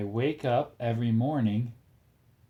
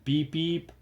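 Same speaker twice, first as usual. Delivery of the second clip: playful high beep; 6 semitones higher than usual. Acted. Bus horn in kids' book.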